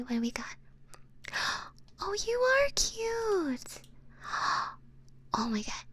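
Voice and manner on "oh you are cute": high, drawn-out gush; gushing admiration. Real, not acted. Streamer seeing the raider's page, gushing high and slow. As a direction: coo it high and slow, smitten.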